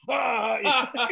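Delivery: high mock "ah" cry; imitated gleeful outburst. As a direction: let out a high, put-on whoop. Imitates Vince's laughing outburst.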